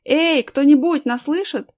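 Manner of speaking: drawn-out loud, high call. A narrator's reading. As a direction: shout slowly for anyone to hear. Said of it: "будем кричать". (протяжный громкий зов)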